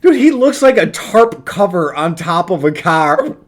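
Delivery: talking through hiccups; words broken by a hiccup. Real, not acted. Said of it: "now I got the hiccups".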